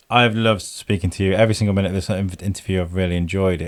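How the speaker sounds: tired voice through a yawn. Real, not acted. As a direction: talk while stifling a yawn. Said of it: "I'm sorry for yawning".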